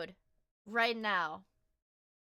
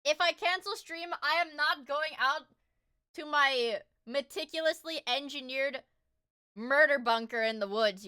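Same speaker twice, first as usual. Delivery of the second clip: emphatic denial; 3 semitones higher, 5 dB louder than usual. Real, not acted. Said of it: "no, usually I just lay in my bed".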